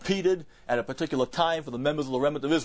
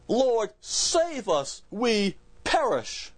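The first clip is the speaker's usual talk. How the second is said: desperate plea; 9 semitones higher, much slower than usual. Acted. Disciples crying out in storm.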